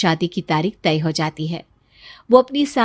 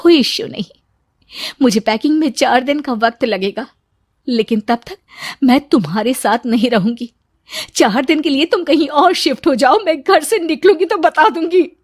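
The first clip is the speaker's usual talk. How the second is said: lightly voiced wife, matter-of-fact and firm; calm, self-reliant, no fuss; composed wife; 4 semitones higher than usual. Wife coolly tells husband to move out, lightly voiced. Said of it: "उसने बिना देर किए रवि को कह दिया".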